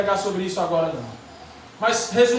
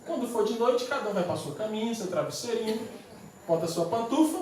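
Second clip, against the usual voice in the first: soft tucking-in voice; mock bedtime coddling; 6 dB quieter than usual. Townsfolk sending little soldiers to bed, soft mock coddling. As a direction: speak softly as if to sleepy little ones.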